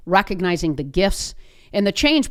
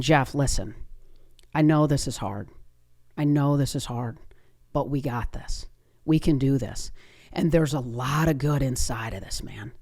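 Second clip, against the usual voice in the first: lower, steady consoling tone; gently steady an upset client, voice settling lower; reassuring; 3 semitones lower, 3 dB quieter than usual. Retold or imitated. Agent tells crying player we got this, reassuring.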